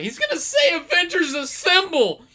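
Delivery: very high, loud fanboy squeal of anticipation; excited Deadpool. Retold or imitated. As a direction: imitate someone bursting with excitement. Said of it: "Deadpool started getting excited".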